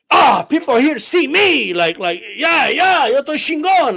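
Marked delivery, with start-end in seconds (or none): 0.1-1.7 higher, swooping mock voice; mock self-important commenter. Streamer mocks channel visitors who think they're the show, self-important. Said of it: "they think they're the show". 2.4-4.0 higher, swooping mock brag; mock self-important commenter. Streamer mocks a dude in the comment section, self-important. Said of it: "they think they're the show".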